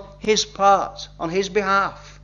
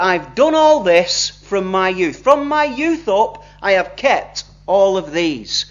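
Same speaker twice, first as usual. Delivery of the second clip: slow, a bit louder, puffed-up boast; proud announcement; 4 dB louder, slower than usual. Retold or imitated. Rich young man boasting to Jesus he kept the law, slow proud announcement. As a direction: announce it slowly, chest out, as if expecting praise. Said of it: "he proudly announces".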